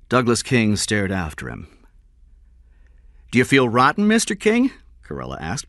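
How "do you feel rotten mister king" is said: loud, rising angry challenge. Acted. Detective confronting the man who refused to pay, angry. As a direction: throw the accusation at him, pitched high. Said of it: "Corella said angrily".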